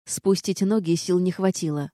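ordinary delivery, nothing marked

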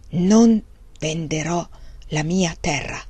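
slow, breathy refusal; hoarse whisper. Acted. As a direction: whisper it slowly through clenched hatred. Wang Lung refuses, full of hate. (sussurro lento e pieno d'odio)

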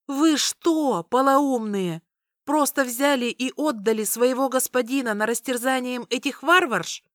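high, loud outraged yell; furious shout. Acted. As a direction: scream at them in outrage. Katarina furious at the sorceress.

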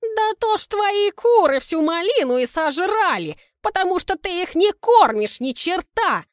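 high, loud furious yell; shouting. Acted. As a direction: yell at the neighbour. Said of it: "кричит Кристина Ивановна".

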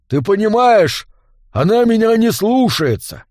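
tipsy complaint. A narrator's reading. Drunk barkeep complains about wife, whining. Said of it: "жаловался захмелевший трактирщик".

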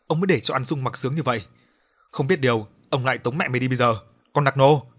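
loud, harsh threatening rant ending in a shout; bully her into silence; angry scolding. Acted. Father threatening his defiant daughter, angry shout.

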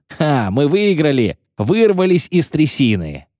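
high, jubilant cry; triumphant yelling. A narrator's reading. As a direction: cheer the escape. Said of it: "орал Коббин". (ликующие крики)

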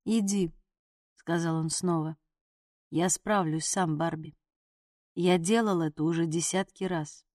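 injured man waving off her concern, low and tired; low, strained wounded man. A narrator's reading. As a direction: brush her off through pain, low. Wounded man repeats dismissal.

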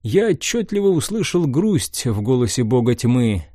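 calm audiobook narrator; story narration. A narrator's reading. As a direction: read it as a steady narrator. (повествование)

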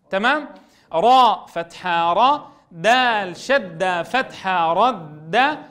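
slow sing-song syllable spelling; spelling drill. Shown as a demonstration. Teacher leading pupils through a spelling drill, slow sing-song. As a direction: chant each letter and syllable slowly, rising at each end.

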